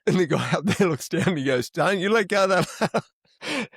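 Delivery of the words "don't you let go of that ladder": higher, mildly raised mock warning; retold shout from overhead, only partly raised; calling down. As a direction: call an urgent warning down, lightly acted. Boss calls down from ladder.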